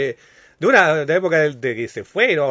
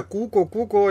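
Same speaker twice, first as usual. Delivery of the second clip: cuckoo call; 5 semitones higher, slower than usual. Retold or imitated. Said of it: "cada vez que él decía".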